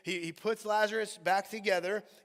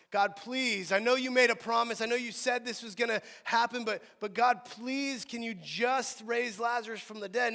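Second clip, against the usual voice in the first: begging prayer; 3 semitones higher than usual. Retold or imitated. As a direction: hurry through it like an anxious plea. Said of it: "stand before God and ask".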